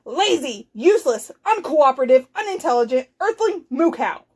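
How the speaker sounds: scolding, punched word by word; exasperated yell. Acted. Zork swats the cow with his hat, scolding yell. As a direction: berate someone, a touch of a yell. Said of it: "and yelled".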